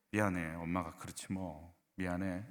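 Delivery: soft, low, slow motherly apology; humble apology. Acted. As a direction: admit fault quietly to your child. Models mother's apology to child.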